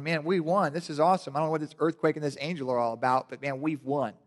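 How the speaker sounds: gloating devil. Retold or imitated. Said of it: "the devil's probably still there going".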